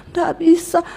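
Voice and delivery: weak, drawn-out protest; barely manage the words; acted struggling husband. Dying husband answers his wife, acted weak struggle.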